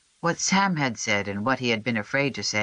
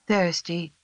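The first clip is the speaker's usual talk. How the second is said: whispered; 6 semitones higher than usual. A narrator's reading. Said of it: "Sam whispered".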